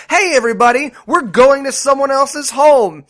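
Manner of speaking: mock announcement. Acted announcement to the whole group.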